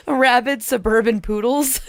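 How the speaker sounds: reading with glee. Acted. Reading the submission out.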